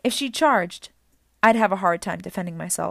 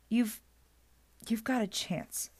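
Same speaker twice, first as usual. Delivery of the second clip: reluctant admission; 3 semitones higher, 6 dB quieter, slower than usual. A narrator's reading. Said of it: "as if she were about to make a difficult admission".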